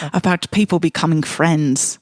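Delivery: put-on loose, slipping Irish accent; lightly attempted Irish accent. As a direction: read it in an amateurish Irish accent. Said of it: "I'm losing my Irish accent here".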